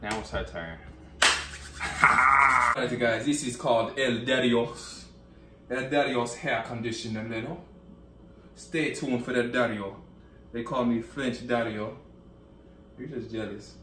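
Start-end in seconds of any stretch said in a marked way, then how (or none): 2.0-13.7 badly faked French accent, showman's patter; mock French accent. Hairdresser introducing a conditioner to viewers, mock French accent. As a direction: put on a hammed-up French host voice. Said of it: "what type of accent that was".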